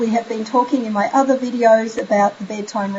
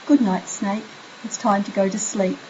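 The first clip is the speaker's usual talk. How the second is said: soft bedtime good night; 2 semitones lower, 5 dB quieter than usual. Shown as a demonstration. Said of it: "have your child say".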